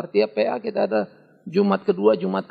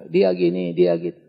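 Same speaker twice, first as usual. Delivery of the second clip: gossip quote; 13 semitones lower, 5 dB louder than usual. Retold or imitated. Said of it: "Kalau orang banyak ngomong".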